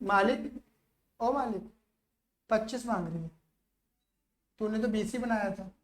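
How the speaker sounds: very soft, hushed call to the boss; acted furtive appeal. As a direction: play it secretive, under the voice. Furtively calling the boss in the story. (दबी आवाज़ में चुपके से पुकारने का अभिनय)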